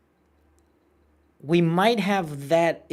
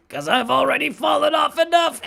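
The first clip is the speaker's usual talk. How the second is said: high, loud exasperated outburst; frustrated yell; 11 semitones higher, 7 dB louder than usual. Real, not acted. Gamer fed up with falling off, frustrated shout.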